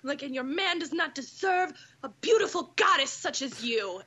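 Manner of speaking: lightly hammed-up adoring tribute; gushing praise. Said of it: "I'm like".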